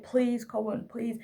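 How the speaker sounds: mild imploring tone; pleading. Retold or imitated. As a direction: plead with a wriggling child. Begging son to keep still.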